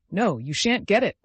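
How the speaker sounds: put-on hoarse drunken battle cry; yelling. A narrator's reading. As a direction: roar it like a crazed old soldier. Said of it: "he yelled".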